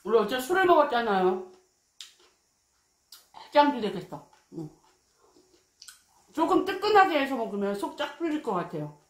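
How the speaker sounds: words between bites; talking while chewing. Real, not acted. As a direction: mouth partly full of food. Seen 2: Cheeks full and jaw working; chopsticks bring more food at 5.3.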